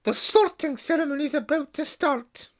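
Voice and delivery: high, loud, brisk announcement; strict teacher hurrying them on; sharp stern voice. Acted. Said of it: "said a sharp voice".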